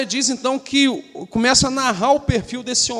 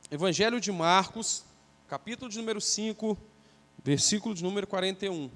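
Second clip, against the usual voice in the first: softer repeat; 8 dB quieter than usual. Real, not acted. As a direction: repeat the reference much softer. Repeats the reference, much softer. (repetição bem mais baixa)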